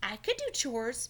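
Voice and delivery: a touch of eager offering. Acted. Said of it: "Franklin offered eagerly".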